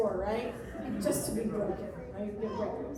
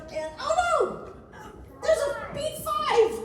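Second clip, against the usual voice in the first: mock surprise; 9 semitones higher, slower than usual. Mock alarm at extra beat.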